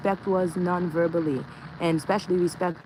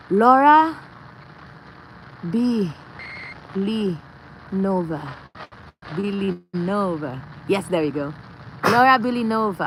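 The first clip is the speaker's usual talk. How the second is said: grand proclamation; 4 dB louder than usual. Pretend. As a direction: announce the grand name theatrically. Dramatic mock name declaration.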